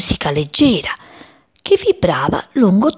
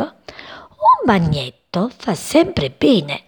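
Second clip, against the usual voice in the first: laughing; 8 semitones higher than usual. Acted. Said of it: "gli disse ridendo".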